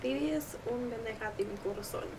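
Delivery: mock Latina accent. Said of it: "We sound like white girls mocking Latinas".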